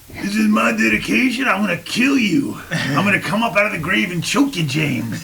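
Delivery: a hint of a growly rocker threatening from the grave; lightly voiced old rocker, menacing; bad impression of a rock singer. Host mock-threatening James as an old rock singer. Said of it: "That was a bad impression".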